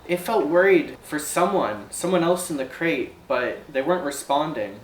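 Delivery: lightly voiced ferry operator recounting something strange; uneasy ferry operator. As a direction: hesitantly confide an odd experience, lightly in character.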